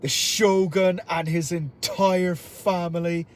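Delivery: a hint of an Irish-accented villain; Abijah Fowler. Shown as a demonstration. Villain addressing Japanese nobles, lightly voiced Irish speech. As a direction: declaim it with a slight Irish accent. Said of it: "these are Fowler's words".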